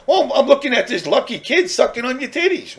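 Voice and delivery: cheeky answer, laughing as he says it; laughing mock reply.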